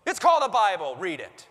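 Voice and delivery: hammed-up angry alarm-clock voice; mock scolding shout. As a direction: bark at a lazy sleeper like a drill sergeant. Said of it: "wake you up in the morning saying".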